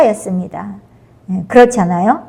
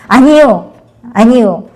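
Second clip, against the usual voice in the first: Jinchung's retort; 3 semitones higher than usual. Retold or imitated. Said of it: "그러니까 진충이".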